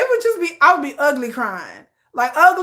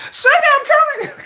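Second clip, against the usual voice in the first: flirty answer; 13 semitones higher, 5 dB louder than usual. Pretend. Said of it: "I'm just like".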